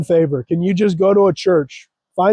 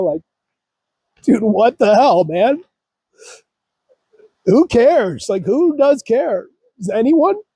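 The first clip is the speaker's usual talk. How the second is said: tearful speech, crying while talking; 4 semitones higher than usual. Speaker recounts walking away and crying on a bench, crying while talking. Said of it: "Just started crying like I am right now".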